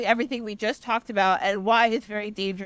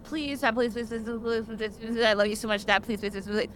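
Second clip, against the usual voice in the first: pleading son; 4 dB quieter than usual. Retold or imitated. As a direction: beg Dad quietly, over and over. Son begging dad, softer.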